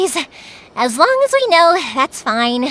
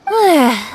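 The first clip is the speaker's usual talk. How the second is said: relieved sigh. Acted. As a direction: sigh out the tension. Relief after near discovery.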